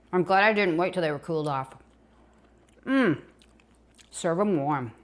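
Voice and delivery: talking while chewing; mouth full. Real, not acted. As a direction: speak through a mouthful of biscuit. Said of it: "Excuse me for talking with my mouth full".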